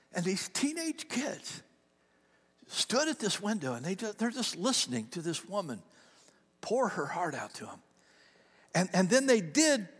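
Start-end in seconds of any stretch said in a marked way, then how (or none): 0.1-7.8 soft, slowing, dropping to a whisper; hushed storytelling. A narrator's reading. Pastor retelling the drive-thru moment to the congregation, hushed. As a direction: draw them in with a near-whisper.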